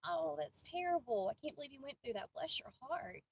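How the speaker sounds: sincere sweet sympathy; said sweetly. Shown as a demonstration. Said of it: "My family used it sweetly".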